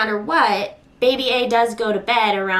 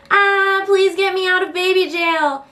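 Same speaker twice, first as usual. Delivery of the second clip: put-on high, louder pleading baby whine; whiny toddler voice; 8 semitones higher, 3 dB louder than usual. Toddler in her playpen begging mom, high whiny plea. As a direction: beg like a trapped toddler. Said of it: "Baby A is like".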